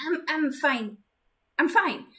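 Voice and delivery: hoarse from coughing; catching breath after cough. Acted. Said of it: "started coughing".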